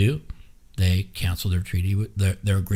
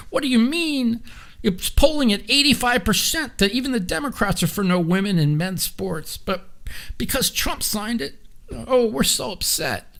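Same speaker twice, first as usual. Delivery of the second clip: much higher whiny mock voice with a fake sob; mocking upset Democrats; 14 semitones higher than usual. Streamer parodies Democrats upset over Trump, high fake-crying whine. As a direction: whine it like a crybaby. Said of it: "They're like".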